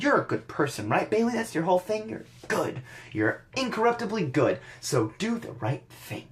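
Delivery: condescending Stephanie. Retold or imitated. Voicing Stephanie to Bayley.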